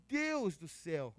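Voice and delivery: a slow, hushed gasp of disbelief; a lightly voiced, slow murmur of amazement; stunned awe. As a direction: let it sink in slowly. Stunned by the healing news.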